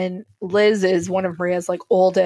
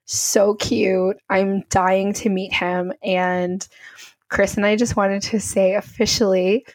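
tearful. Real, not acted. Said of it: "ugly crying I'm crying right now".

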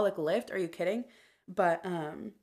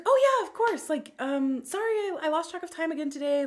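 mock apologetic boss; 9 semitones higher, 3 dB louder than usual.

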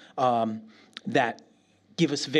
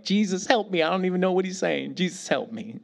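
retold prayer. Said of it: "the whole time I'm like".

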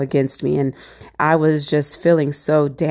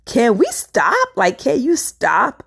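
stern boss; 7 semitones higher, slower than usual. Retold or imitated. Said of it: "and she says".

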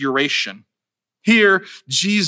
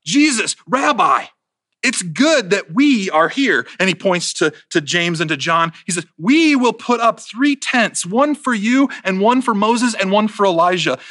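blabbing out; 3 semitones higher than usual. Acted. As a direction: blurt it out, nervous and eager. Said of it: "he suddenly just blabs out".

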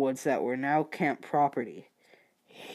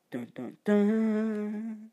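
dun-dun-dun with a long held final note; ominous movie sting, drawn out; mock suspense sting; 5 semitones higher, 4 dB quieter, much slower than usual. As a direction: sing out a cheesy dramatic reveal. Mock suspense sting after the place name.

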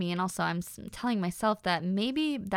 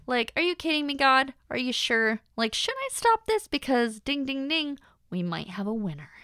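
incredulous disbelief; 4 semitones higher than usual. Retold or imitated. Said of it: "I'm like".

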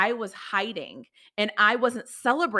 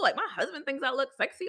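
laughing; 6 semitones higher than usual. Real, not acted. Laugh heard on line.

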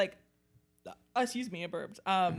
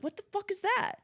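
put-on high squeaky shocked girl voice; 12 semitones higher, 3 dB quieter, faster than usual. Retelling a horror film scene, squeaky high mock alarm. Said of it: "she's like".

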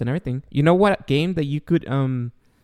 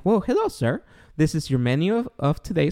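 a hint of a posh butler serving his son. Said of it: "I'm like".

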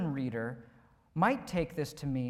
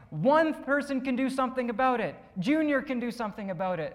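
raised, declaring storyteller voice; lightly acted wise figure; 6 semitones higher, 3 dB louder than usual. Pastor voicing the cartoon's wise rescuer, lightly proclaiming.

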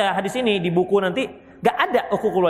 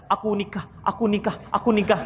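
mock stammering groom. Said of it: "nggak sanggup mengucapkan".

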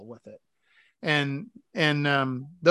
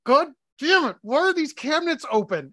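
imitating the wife; 9 semitones higher than usual. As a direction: play the annoyed wife finding cabinets open. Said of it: "she would be like".

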